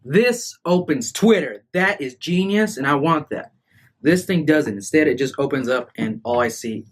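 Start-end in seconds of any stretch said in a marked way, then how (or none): 0.0-5.1 high, slow, amazed delight; excited. Real, not acted. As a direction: marvel at the phone. Delighted at the phone.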